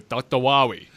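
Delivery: lightly mimicked game doctor. Host recalling a bad game line, mock doctor voice. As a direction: imitate the botched line of a game scientist. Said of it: "Doctor Light from the Mega Man games".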